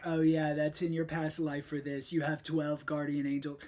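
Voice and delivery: lightly voiced Trump impression as the psychic; a hint of Trump voice. Host slips into a mild Trump voice playing the psychic. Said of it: "Why did I go into the Trump voice?".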